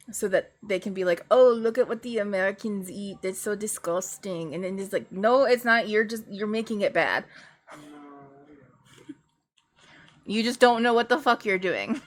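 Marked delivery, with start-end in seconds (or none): 1.3-4.5 playfully bad French accent sneering at American food; mock French accent. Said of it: "my, my French accent?". 5.1-12.0 indignant retort. Retold or imitated. Retorting to the imagined French critic.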